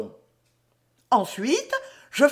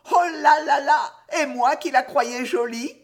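mimicked gentleman's dismay; 3 semitones higher than usual. Riquette imitating the gentleman who walks away, mock dismay. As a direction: lightly imitate a put-off admirer. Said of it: "s'éloigne en se disant".

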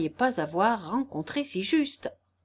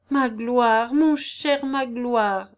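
joyful greeting; 4 semitones higher, 5 dB louder, much slower than usual. A narrator's reading. Wife comes round, greets husband.

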